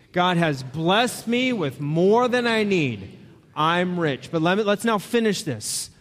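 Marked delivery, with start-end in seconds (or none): 0.1-4.3 congregation recitation. Shown as a demonstration. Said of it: "Read it with me".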